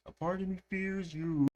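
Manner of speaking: high imitation with a touch of dread; imitating a dark scary line. Reacting to a song, mildly spooky imitation. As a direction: make it sound a little scary. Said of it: "got dark and scary again".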